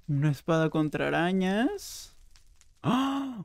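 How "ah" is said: high-pitched "ah" of delight; surprised gasp. Real, not acted. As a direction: gasp at a lucky find. Sorpresa al ver el botín. (jadeo de sorpresa)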